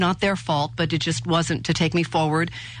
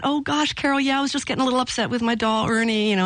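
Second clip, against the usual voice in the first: higher, sheepish, fast excuse; sheepish apology; 6 semitones higher, faster than usual. Retold or imitated. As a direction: rush it out high like you've been caught. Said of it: "And I said".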